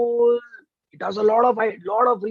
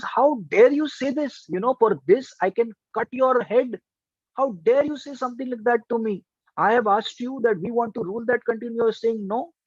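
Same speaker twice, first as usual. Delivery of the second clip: angry queen; 2 semitones higher than usual. Acted. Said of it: "the queen gets extremely angry".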